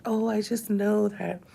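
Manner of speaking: lightly hammed-up false happiness; fake cheer. Vlogger mocking the fake joy she refuses to perform, bright mock cheer. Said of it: "don't wanna be fake and be like".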